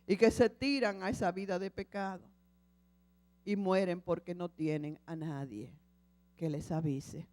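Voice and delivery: lightly voiced Lord speaking tenderly. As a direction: speak as a patient, loving God. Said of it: "escuchó al Señor".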